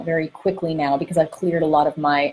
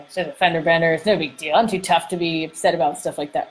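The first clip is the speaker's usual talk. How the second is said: lightly put-on macho brush-off; a hint of the tough guy resisting feeling; tough manly voice. Man resisting emotion after a crash, mildly tough manly voice. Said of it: "Is my, my tough manly voice".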